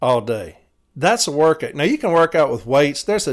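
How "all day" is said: yawning. Real, not acted. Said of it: "I'm yawning".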